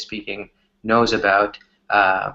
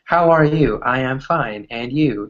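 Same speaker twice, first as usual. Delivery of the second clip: overly formal, clipped textbook English; stiff textbook greeting. Retold or imitated. Mocking how a textbook speaker greets a friend, stiff and formal. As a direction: recite it like a phrasebook. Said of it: "if it's from a book".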